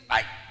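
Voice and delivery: sudden sharp loud "ai" of pain; cry of pain. Retold or imitated. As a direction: yelp as the shoulder gives way. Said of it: "esse homem gritava de dor".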